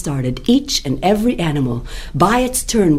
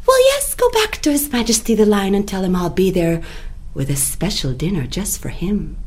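higher, breezy rabbit voice; rabbit's reply; 4 semitones higher than usual. Acted. Rabbit sends the jackal back to the lion. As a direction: brush it off lightly.

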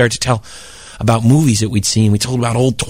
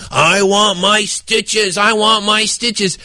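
slow drawn-out monster plea; mild ghoul moan; 6 semitones higher, much slower than usual. Retold or imitated. Bill adding to the ghost story, slow moan. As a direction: groan it like the headless man. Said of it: "knocking on a door saying".

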